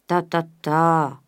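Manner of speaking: slow, coaxing and tender; father hushing his wife, slow and caressing. A narrator's reading. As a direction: soothe her, slowly. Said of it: "d'une voix caressante".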